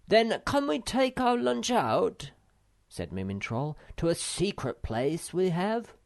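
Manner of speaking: a small troll taking charge of the pears; Moomin Troll voice. A narrator's reading.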